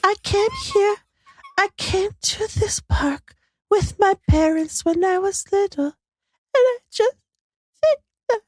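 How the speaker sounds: high, wavering on the verge of tears; tearful. Retold or imitated. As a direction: choke up over a childhood memory. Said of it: "it sounds like this".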